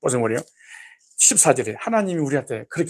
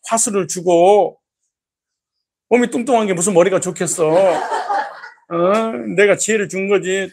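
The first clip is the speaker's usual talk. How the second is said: scolding God; 2 semitones higher, 3 dB louder than usual. Retold or imitated. Voicing God scolding congregant.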